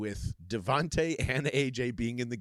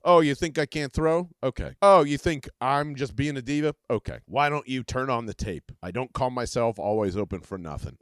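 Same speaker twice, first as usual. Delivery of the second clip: defiant retort; 6 dB louder than usual. Acted. A J Brown answering doubters through the host, loud and defiant. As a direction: throw it back at the doubters.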